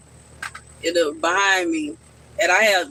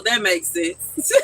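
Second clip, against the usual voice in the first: laughing; slower than usual. Real, not acted. Laughing while answering a viewer.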